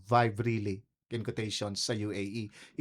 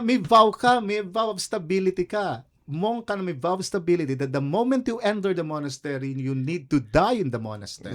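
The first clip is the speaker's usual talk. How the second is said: quoting the abbot; 4 semitones higher, 4 dB louder than usual. Retold or imitated. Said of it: "Sabi niya".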